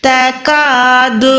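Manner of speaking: तकादु said slow and thin, not heavy; thin articulation. Shown as a demonstration. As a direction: draw out तकादु lightly from the mouth. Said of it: "बारीक अदा करना है". (बारीक तकादु)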